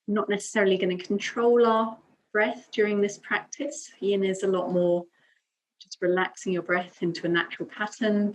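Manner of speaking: calm yoga teacher's guiding voice, long pauses between phrases; guided meditation. Acted. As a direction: guide them gently into breath and stillness. Leads calm breathing and affirmation.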